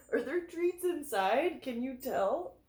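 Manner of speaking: high sweet pet talk; talking to the dog. Real, not acted. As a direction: coo at the dog.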